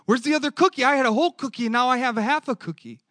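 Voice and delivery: voicing a child's feeling. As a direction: ache like a child missing her other half. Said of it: "her feeling would be like".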